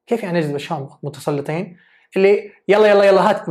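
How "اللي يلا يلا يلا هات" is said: loud, pushy hurry-up; bossy demand. Acted. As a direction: order her to hand it over now. Acting a bossy friend demanding food. (صوت متسلط عالي يستعجل)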